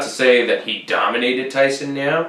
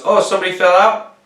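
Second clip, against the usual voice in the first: high, squeaky mock Angela Hill voice; annoying voice imitation; 10 semitones higher, 6 dB louder, faster than usual. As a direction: mimic her grating voice, pitched way up. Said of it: "she does have kind of an annoying voice".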